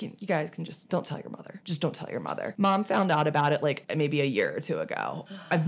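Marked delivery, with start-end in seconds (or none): 0.0-2.5 softly ashamed dad; sheepish hush. Retold or imitated. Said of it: "hung his head in dad shame and was like".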